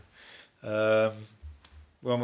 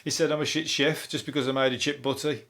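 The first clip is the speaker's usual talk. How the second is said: mock offended whiner; 4 semitones higher than usual. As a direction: send up the easily offended. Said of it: "They'd be like that".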